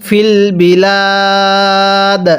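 very slow, বিলাদ with the final দ given a small echoing push; bouncing final dal. Shown as a demonstration. Teacher demonstrates the qalqala letter to the class, slow. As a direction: let the দ of বিলাদ bounce out at the stop. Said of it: "দালটা ধাক্কা দিয়ে পড়ব".

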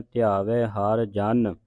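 ਧਿਆਵੈ ending in open vai, said slowly; slow ਧਿਆਵੈ ਹਰ ਜਨ with ai after the v; open ai vowel. Shown as a demonstration. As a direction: stretch the final ai of ਧਿਆਵੈ. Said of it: "ਵਾਵੇ ਨੂੰ ਦਲਾਵਾਂ ਲਾ ਕੇ".

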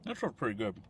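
talking through a mouthful; words round a bite of food; mouth full. Real, not acted. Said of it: "It's rude to talk with your mouth full".

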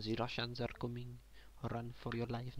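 lightly voiced mock Russian accent. Shown as a demonstration. Player demonstrates his Russian accent as a warning, mock Russian. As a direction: announce it with a hint of Russian. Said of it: "That's my Russian accent".

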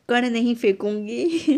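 laughing at her own thriftiness. Real, not acted. Jokes about wasting no grain. (हँसते हुए, धीरे और ज़ोर से)

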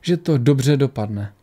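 measured audiobook reading with lightly voiced dialogue; story narration. A narrator's reading. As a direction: read the tale aloud, pausing between phrases. Reads the story aloud. (vyprávění příběhu)

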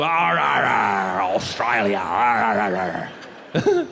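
low, hammed-up pirate arrs; pirate growl. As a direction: growl arr like a cartoon pirate. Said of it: "I just kinda do pirate".

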